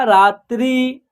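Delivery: रात्रि with both syllables held long; pronunciation demo. Shown as a demonstration. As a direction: sound out रात्रि for learners. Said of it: "क्या उच्चारण होगा?". (रात्रि का खींचकर साफ़ उच्चारण)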